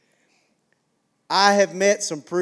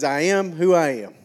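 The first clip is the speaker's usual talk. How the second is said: a light, lightly voiced Popeye; barely-there Popeye voice on the line; Popeye impression; 2 semitones lower than usual. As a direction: toss off a hint of the cartoon sailor. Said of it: "a little Popeye here this morning".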